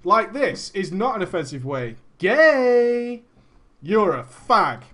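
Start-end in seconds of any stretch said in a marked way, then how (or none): 2.2-4.8 mock taunting insult; a hint of a taunting troll. Shown as a demonstration. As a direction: sneer it like a bratty gamer. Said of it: "Do you see the difference?".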